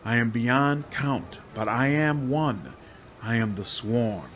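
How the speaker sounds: a many-bodied demon whispering its bargain; hissing swarm demon. Acted. Swarm demon coaxing the hero to free her.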